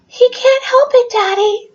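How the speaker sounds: put-on high whiny children's plea; pleading kids. Parent voicing the twins pleading with their father. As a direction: beg Daddy on the dog's behalf.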